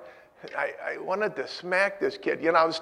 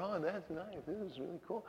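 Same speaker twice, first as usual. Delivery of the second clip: polite feigned interest; 2 semitones higher, 15 dB quieter than usual. Retold or imitated.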